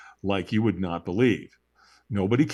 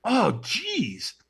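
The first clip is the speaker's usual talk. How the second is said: higher, slow, pained dismay; mock panic; 8 semitones higher, much slower than usual. After the walk, fearing burnt feet, high and slow. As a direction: whimper over burnt feet, drawn out. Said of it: "I go".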